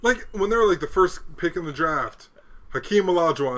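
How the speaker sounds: heated sports rant; excited. Real, not acted.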